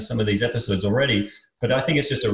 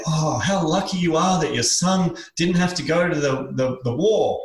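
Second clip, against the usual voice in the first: impressed neighbour; 5 semitones higher than usual. Acted. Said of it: "the neighbors say".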